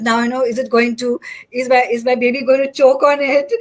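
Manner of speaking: mildly acted anxious outburst; upset, worried mother. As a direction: imitate your own fretting over the baby, voice lifted. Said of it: "I got so upset".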